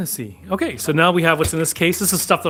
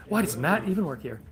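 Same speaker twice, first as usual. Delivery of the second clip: mock exasperated question; 5 semitones higher, 4 dB quieter than usual. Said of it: "No, I'm just kidding".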